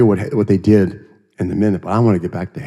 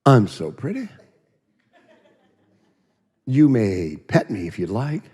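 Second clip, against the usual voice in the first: prissy horse; 4 semitones higher than usual. Retold or imitated. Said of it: "She was Miss Prissy".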